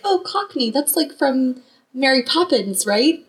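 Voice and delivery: a hint of a chirpy mother; imitating mom. Retelling her mom's Cockney guess to the host. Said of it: "she's like".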